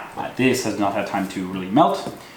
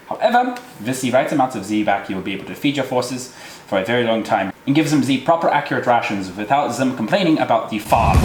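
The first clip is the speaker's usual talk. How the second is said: hammy fake German accent; overdone German accent; terrible German accent. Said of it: "talking in a terrible German accent".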